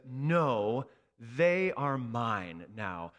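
slow, steady protective voice; firm claim. Acted. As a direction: shield them with your words. Jesus claims us from wrath.

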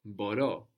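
boRO, stressed on the last syllable; stress on the ending. Shown as a demonstration. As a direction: put the accent on the final o of "Boro". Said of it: "accent on the ending".

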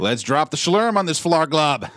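high, slow gurgling alien croak; gurgling fish man croak. Pretend. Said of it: "More alien words".

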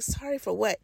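soft aside, as if to herself. Retold or imitated. Shopper to herself after stranger's apology, quiet aside. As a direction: mutter it privately under the voice. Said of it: "to myself".

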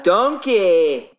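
mock Shrek. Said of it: "friend mimics the Shrek bit".

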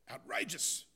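loud indignant outburst; mock shriek. Angry patient shrieks at his doctor, mock shriek. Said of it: "shrieked the first patient".

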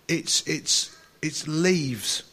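whispered through tears; breathless and overcome; choked up. Retold or imitated. Overwhelmed, crying at the bush.

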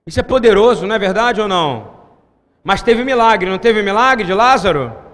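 loud, pounding preacher's call; full-voiced sermon climax; fiery preaching. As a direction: preach it out to the crowd.

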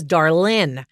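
Southern "darlin'" with dropped G; drawn Southern "darlin'"; Southern accent. Retold or imitated. Correcting how the Showgirls character says it, Southern darlin'. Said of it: "'cause that's Southern".

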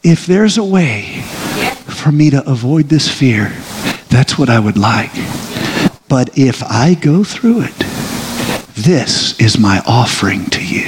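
slow, hushed prayer of surrender. Acted. Preacher voicing a believer's prayer at the altar, slow and hushed. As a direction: pray it slowly, offering the fear up. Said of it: "And you say".

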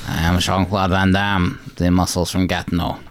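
lightly voiced French Van Damme; French accent. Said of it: "With a, with a French accent".

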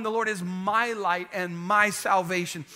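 both "my"s given weight; stress on MY. Shown as a demonstration. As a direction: lean on "my" each time it comes. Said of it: "the emphasis on the word "my".

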